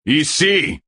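sharp high shout over the storm. Acted. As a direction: yell it out to claim the place. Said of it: "cria Tueur".

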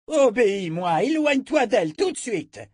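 high, forceful order to get away; urgent command. A narrator's reading. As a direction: command him, rising in alarm. Wizard commands Richard urgently.

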